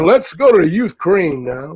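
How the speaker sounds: slow, formal anchor read; news anchor voice. Retold or imitated. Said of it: "You sounded like a news anchor".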